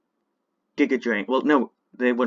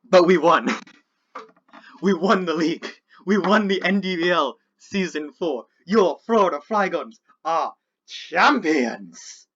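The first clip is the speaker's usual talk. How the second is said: gleeful; 4 semitones higher, 5 dB louder than usual. Real, not acted. Renewed celebration.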